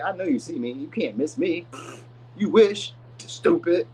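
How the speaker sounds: a smug, dismissive brush-off, ending sharper; playing the show-off who knows all eyes are on them; mock stuck-up lover tossing off a put-down; cocky harsh talk. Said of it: "Maybe they talk like that".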